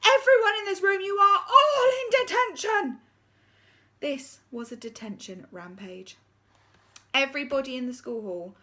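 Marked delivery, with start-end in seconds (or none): 0.1-3.0 high, loud furious shout; deputy head snapping at everyone. Acted. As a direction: snap at the whole room.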